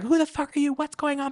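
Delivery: a half-hearted scared shriek up high; mock panicked scream. Heroine retold as she panics at the monster, mock scream. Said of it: "She's screaming".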